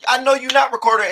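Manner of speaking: hammed-up confrontational yell; mock angry shout. Teen confronting the recording girl, mock shout. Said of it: "she walks over there".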